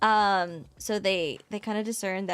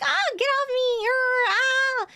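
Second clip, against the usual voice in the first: high, flustered protest; mock protest; 5 dB louder, slower than usual. Retelling the heroine pushing off drunk Jinshi, high flustered mock squeal. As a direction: squeal it as a mock push-away. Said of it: "she's like".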